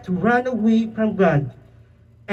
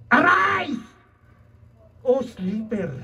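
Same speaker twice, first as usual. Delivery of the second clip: sailor's wake-up call; 5 semitones higher, slower than usual. Retold or imitated. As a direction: call out to the sleeper. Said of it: "ang sabi ng sailor".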